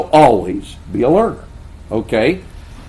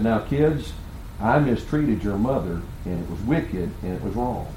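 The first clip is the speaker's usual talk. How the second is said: soft, sinking lower; retold solemn confession; 4 semitones lower, 8 dB quieter than usual. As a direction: own up gently to the children, dropping in pitch. Retold confession to his children.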